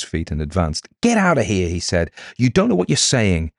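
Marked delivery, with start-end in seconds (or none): 1.0-1.7 higher, sharp dismissal; angry order. A narrator's reading. Reese orders Miss Withers out, angry. 2.4-3.5 higher, indignant denial; agitated rebuke. A narrator's reading. Reese rebukes his accuser, agitated.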